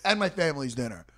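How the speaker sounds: loud, high mock indignation; hammed-up furious retort; retold indignant outburst. Retold angry retort to security.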